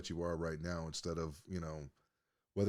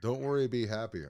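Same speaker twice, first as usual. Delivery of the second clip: mock greeting card cheer; 3 semitones higher, 4 dB louder than usual. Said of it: "sounds like a bunch of fucking greeting cards".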